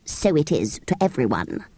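sharp retort. Acted. Sand fairy snaps at Jane, low sharp retort. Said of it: "said the creature sharply".

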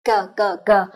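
cờ with no puff of air, voiced through the throat; plain Vietnamese cờ. Shown as a demonstration. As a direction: say cờ the Vietnamese way, unaspirated. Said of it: "chúng ta sẽ đọc là".

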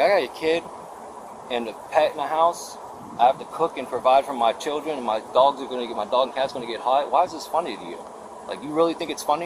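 insistent, exasperated pleading; retold indignant argument. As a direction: press your case, offended. Retold indignant argument to laughing woman.

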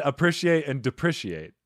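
"appreciate" and "depreciate" with short i, as "prish"; mispronounced. Shown as a demonstration. Host repeating the disputed words, defending a short-i pronunciation. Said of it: "did I pronounce that wrong?".

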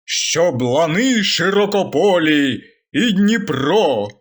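slow, grand declamation turning to a curse; mock solemn curse. The speaker slowly declaims a curse at the enemies. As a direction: recite it like a solemn anthem, slowly.

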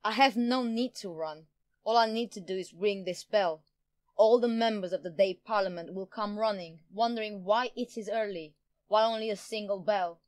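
gloating villain, energised; excited, triumphant threat; manic glee. A narrator's reading. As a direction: crow over your plan with manic delight. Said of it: "Jian retorted with manic glee".

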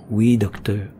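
meek, yielding reply; a hint of a docile patient; submissive voice. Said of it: "avait repris sa voix soumise".

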